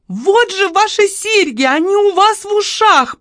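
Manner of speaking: put-on high, loud frightened shop girl; desperate appeal. A narrator's reading. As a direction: plead with a madwoman in a high voice. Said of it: "попыталась она воззвать".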